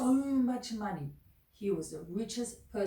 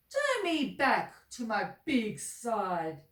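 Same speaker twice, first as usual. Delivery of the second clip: demanding; 3 semitones higher, 6 dB louder, much slower than usual. Acted. Shrunken Uppity demands.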